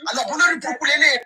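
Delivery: rapid cursing. Real, not acted. Yoruba insults at interrupter.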